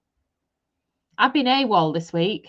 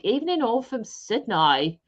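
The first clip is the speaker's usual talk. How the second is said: lightly put-on Australian accent; dubious Australian twang on a greeting; attempted Australian accent. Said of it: "Is that a good Australian ac-, Australian accent?".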